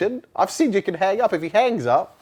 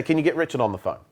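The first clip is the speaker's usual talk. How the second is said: curt, no-nonsense CEO order; just ask for it flatly, like you own the place; blunt boss request; 3 dB quieter, faster than usual. Shown as a demonstration. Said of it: "He'd say".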